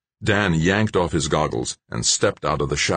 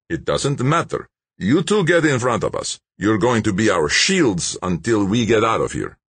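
raised, forceful character voice; commanding gunman; 7 semitones higher, 3 dB louder than usual. A narrator's reading. Gunman orders two women ahead, commanding. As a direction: order them about, pitched up.

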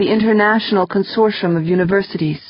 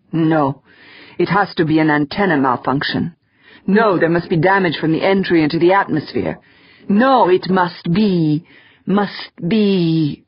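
deeper voice. Retold or imitated. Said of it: "in a deeper voice".

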